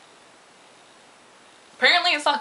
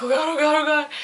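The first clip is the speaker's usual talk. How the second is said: higher, louder frantic muttering; mock panic; 5 semitones higher, 5 dB louder than usual. She rushes upstairs late for work, flustered. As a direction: hurry through the words in a fluster. Rushing to get ready.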